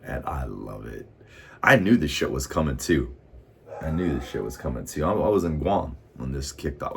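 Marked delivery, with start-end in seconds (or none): 1.6-3.2 emphatic. Real, not acted. 3.8-5.0 quick aside. Real, not acted.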